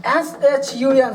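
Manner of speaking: each letter said slowly and clearly; slow spelling. Shown as a demonstration. Teacher spelling SHUN slowly for students. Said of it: "teacher spells word letter by letter".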